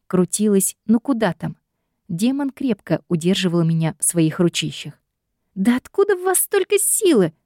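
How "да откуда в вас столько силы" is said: high, exasperated outburst; much higher exasperated cry; freaking out. A narrator's reading. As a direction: lose her temper, high and shrill. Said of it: "психовала я".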